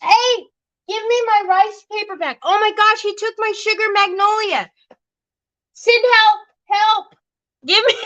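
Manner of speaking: high, playful mock outrage; mock protest. Mom to her son who grabbed her rice paper, high mock outrage. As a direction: squeal for it back, half-joking.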